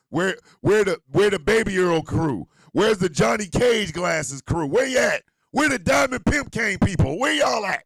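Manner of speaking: shouting out the fan crews; hype call-out. Real, not acted. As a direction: call out to the crowd like a hype man.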